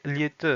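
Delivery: "liete" ending between o and a; reduced final vowel. Shown as a demonstration. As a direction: let the end of "liete" relax toward a. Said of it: "entre le O et le A".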